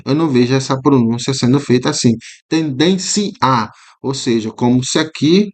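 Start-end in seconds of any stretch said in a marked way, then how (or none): 2.5-3.3 Tendência said a little higher, the i sounded as a full vowel; hiatus pronunciation. Shown as a demonstration. Teacher showing students a wrong hiatus reading of Tendência. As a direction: pronounce Tendência as if the i and a were a hiatus. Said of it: "como se o I fosse pronunciado mesmo".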